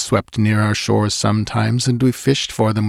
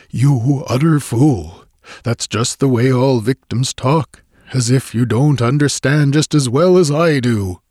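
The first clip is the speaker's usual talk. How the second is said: scornful sneer; 4 semitones higher, 3 dB louder than usual. Acted. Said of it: "he sneered, with scorn".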